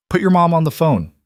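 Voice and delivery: father woken at night, demanding the mother; urgent demand. Acted. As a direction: cut through and take control, scared for her.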